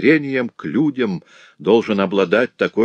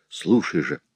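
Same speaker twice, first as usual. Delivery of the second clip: ordinary delivery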